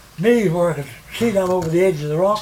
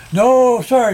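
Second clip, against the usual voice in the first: eager refusal; 5 semitones higher, 5 dB louder than usual. Retold or imitated. Eager man refusing to hand over pole.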